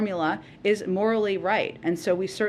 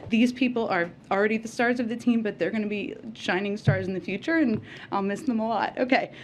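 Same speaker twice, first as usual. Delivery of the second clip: real emotion breaking through, trying to hold it together; fighting back tears; 4 semitones higher than usual. Real, not acted. Press secretary at her last briefing, thanking the team, close to tears. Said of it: "I promised myself I was gonna keep it together".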